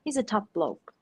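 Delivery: mock sincere. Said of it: "Very sincerely".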